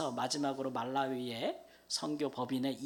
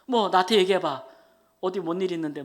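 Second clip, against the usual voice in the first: urgent pressing; 4 semitones higher, 10 dB louder than usual. Retold or imitated. Retells urging his friend to explain.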